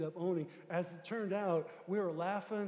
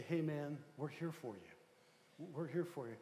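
gentle reassurance; 2 semitones lower, 5 dB quieter, slower than usual. Retold or imitated. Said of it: "we say".

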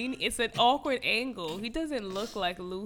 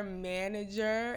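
dragged word; slower than usual. Real, not acted. Gossiping about a singer's manager, "manager" dragged out. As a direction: stretch out "manager" slowly. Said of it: "Why did you drag the word manager?".

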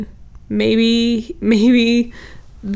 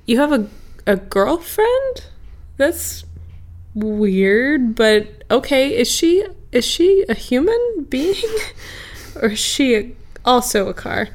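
incredulous; 4 semitones higher than usual. Acted. Guy asks car in disbelief.

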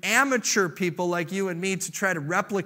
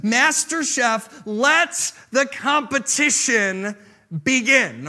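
slow announcer call, a little louder; mock TV host; 3 semitones higher, 4 dB louder, slower than usual. Preacher to the church, announcing the contest like a TV host. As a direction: boom it out like a cooking show host.

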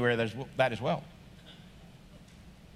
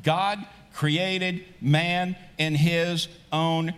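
scripture reading. Acted. Reads Genesis aloud to congregation.

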